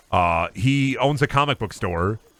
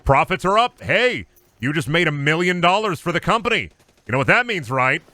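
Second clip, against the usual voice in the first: mock boss; 5 semitones higher than usual. Boss voice announcing profits.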